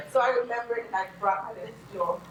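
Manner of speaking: hoarse, raspy speaking voice. Real, not acted. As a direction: talk through a raspy throat. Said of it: "my raspy voice".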